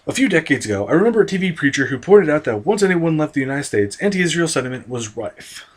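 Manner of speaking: steady, even read-aloud voice, lighter on the swearing; reading an article aloud. Acted. Vlogger reads an article on Palestino to viewers, measured reading voice. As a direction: read the passage out like a columnist.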